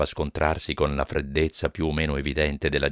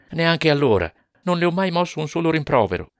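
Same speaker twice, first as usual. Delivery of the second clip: higher and louder firm denial; husband firmly denying he ever scolded, raised voice; forceful; 12 semitones higher, 4 dB louder than usual. Acted. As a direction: state it with force. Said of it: "Jonas affermò con forza".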